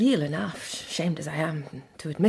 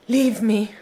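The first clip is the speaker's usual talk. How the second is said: louder, forceful dismissal; sharp command; 3 semitones higher, 7 dB louder than usual. Acted. Marian ordering the Count to leave her. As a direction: push him away with the words.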